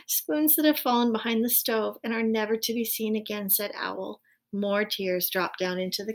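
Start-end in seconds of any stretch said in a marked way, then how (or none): 0.1-3.5 giggling through the line; laughing. Real, not acted. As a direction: read it while laughing. Laugh on retake.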